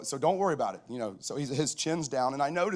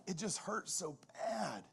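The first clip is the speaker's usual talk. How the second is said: soft, high, drawn-out mock crying; imitating tearful son; 8 semitones higher, 9 dB quieter, slower than usual. Son sobs to his dad about the sled, imitated tearful whine. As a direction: imitate a kid crying, words stretched out. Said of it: "my dude's crying".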